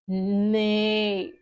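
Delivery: long spoken neigh; horse neigh. Acted. Teacher voicing the blue horse, a long neigh. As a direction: lightly imitate a horse, drawn out. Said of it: "what the horse says".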